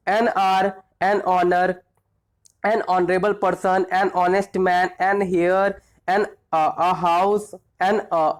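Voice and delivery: measured read-through of the word list; teacher running through examples for recall. Shown as a demonstration. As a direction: read each item out clearly, one at a time.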